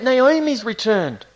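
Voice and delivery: high, drawn-out call of news; excited cry. Acted. Townspeople announcing Naomi's return, crying out excitedly. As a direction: cry it out to the town. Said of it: "they're crying out".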